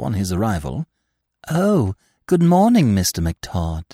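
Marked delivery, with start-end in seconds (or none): 1.5-3.8 slow, sweet cooing greeting. Acted. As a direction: coo the greeting. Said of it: "she cooed".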